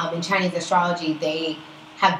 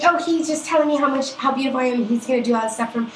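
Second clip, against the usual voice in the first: higher mock gushing that settles gradually; imitated smitten friend; 4 semitones higher, faster than usual. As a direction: gush on as a friend boasting of an admirer. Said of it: "she's like".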